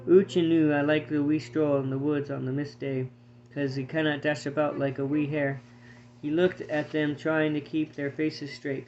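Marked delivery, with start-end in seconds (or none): 0.1-5.6 lightly voiced mock Scots swagger; a hint of a swaggering Highlander, played for laughs; mock Scottish swagger. Hare mocking the squirrel, light comic Scottish swagger. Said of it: "adopted Doogie's trenchant swagger comedically".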